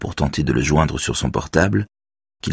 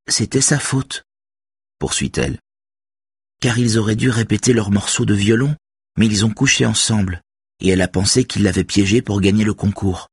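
put-on higher girl's voice, earnest and firm; teen girl voice; 5 semitones higher than usual. A narrator's reading. Girl defends Axel to Robert, higher earnest voice. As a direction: voice the young girl defending him. Beverly's voice.

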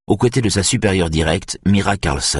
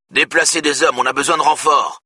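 higher, urgent shout into the radio; shouting over the radio; 7 semitones higher than usual. A narrator's reading. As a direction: bark the order for reinforcements. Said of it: "crie Brolin dans la radio".

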